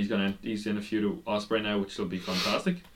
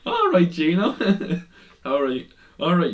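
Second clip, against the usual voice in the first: high, louder teasing reply; imitating a commentator; 8 semitones higher, 6 dB louder than usual. Impersonating a commentator brushing off an over-excited partner. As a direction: ham up the other commentator. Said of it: "It was just".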